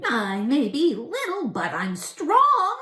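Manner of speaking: high squeaky little goblin voice; tiny goblin. Acted. Tiny goblin catches Herschel lighting candles, high squeak. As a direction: squeak it out like a horsefly-sized goblin.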